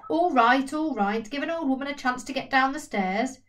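put-on old Elsie calling down the stairs; impatient old woman. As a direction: hurry them along crossly, like an elderly woman. Old Elsie answering door.

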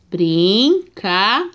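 "Brincarão" said slowly, syllable by syllable; slowed, separated "Brincarão"; slow syllable reading. Shown as a demonstration. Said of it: "vamos ver a separação".

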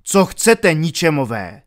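loud, firm, high demand; resolute challenge. Acted. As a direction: stand your ground and call them out. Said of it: "řekl odhodlaně".

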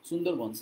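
সুন্দরবনস as "Sundarbans"; plain s at both ends of সুন্দরবনস; English-style pronunciation. Shown as a demonstration. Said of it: "এরকম বলে আর কি". (ইংরেজি ধাঁচে "সুন্দরবনস")

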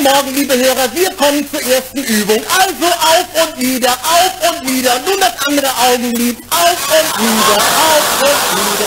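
mock radio announcer.

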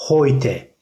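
"heute" said slowly HOY-te; slow German oy in "heute". Shown as a demonstration. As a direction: model "heute" with an oy glide. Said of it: "oy yapıyoruz".

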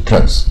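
"Prince" with a short, lax i; short-vowel "Prince"; correct pronunciation. Shown as a demonstration. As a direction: say "Prince" with a relaxed vowel near eh. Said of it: "它是Prince啊".

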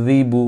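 যিবু with both syllables kept short; short, unstretched. Shown as a demonstration. Teacher modelling the harakat rule, short unstretched যিবু. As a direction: say যিবু briefly, no lengthening. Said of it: "এগুলো টানা যাবে না".

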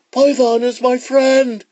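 very high, loud iguana protest; iguana's cry. Acted. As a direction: protest friendship in a high squeal. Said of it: "cried the iguana".

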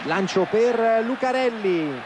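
rising excited call, drawn out slowly; breathless italian goal commentary. Real, not acted. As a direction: call the long ball with mounting excitement. Live play-by-play as attack builds.

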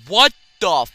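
high, loud, slow mock shouting viewer; shrieking viewers in disbelief; mock viewer outrage. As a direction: ham up the outraged fan yelling at TG. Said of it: "I bet you guys are like".

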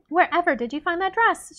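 silky courtly flattery, gently played; purring. A narrator's reading. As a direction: coo it with feigned admiration. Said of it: "she purred".

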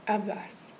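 "hablas" with the stress on the last syllable, -BLAS; stress on the end. Shown as a demonstration. Tutor showing the student where the stress falls, stressing the end. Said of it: "and then the emphasis on the end".

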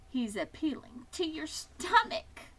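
high goose voice; warning goose. A narrator's reading. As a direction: warn him off in a high voice.

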